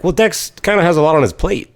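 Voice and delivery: a touch high and put-on, hedging; lightly voiced hedging of an ask; mild mock-innocent deflection; awkward hint. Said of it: "I'm like".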